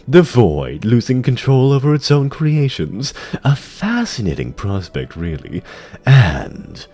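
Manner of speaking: lightly voiced, measured demon courtier; sly dreadlord. Tichondrius reporting to the Lich King, lightly voiced sly demon. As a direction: purr it with mocking deference.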